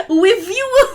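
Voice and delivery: squeaky uwu voice, hammed up. Streamer performing an uwu segment for chat, squeaky and loud. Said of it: "with an uwu voice".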